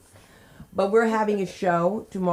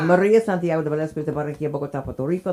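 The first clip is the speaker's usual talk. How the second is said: put-on Spanish accent; 3 semitones lower, faster than usual. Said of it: "That's the way she was saying it".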